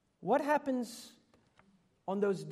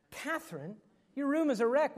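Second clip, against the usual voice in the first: exasperated parent; 6 semitones higher than usual. Retold or imitated. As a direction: repeat the scolding, fed up now. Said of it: "Next day".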